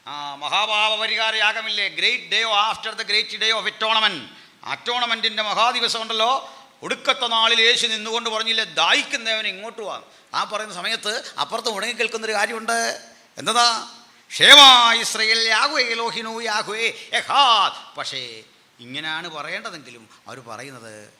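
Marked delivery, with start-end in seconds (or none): 0.1-14.0 loud, high, driving sermon voice; raised, ringing preacher's delivery; full-force preaching. Real, not acted. 14.3-18.0 loud, high, stretched creed cry; slow, full-force Hebrew declaration; booming proclamation. Acted. Acts out the temple proclamation.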